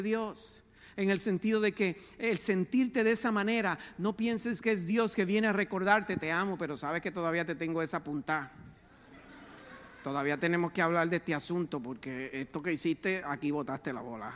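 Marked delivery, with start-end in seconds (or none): 6.2-14.3 low, fast grumbling reproach; a low mock accuser rattling off old faults; mock accusing God. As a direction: play a nagging, scolding false God. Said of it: "Ese no es Dios".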